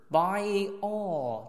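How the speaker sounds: slow "buy all" run together without a break; linked words. Shown as a demonstration. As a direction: glide from "buy" straight into "all". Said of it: "有一个地方你可以连一下". (连读"buy all"，中间不断开)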